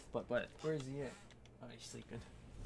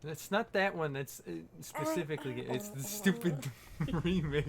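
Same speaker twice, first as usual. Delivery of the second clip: puffer fish voice; 5 semitones higher, 7 dB louder than usual. Acted. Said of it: "the puffer fish voice".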